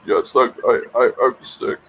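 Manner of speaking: Chomsky voice. Acted. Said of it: "you do a great Chomsky voice".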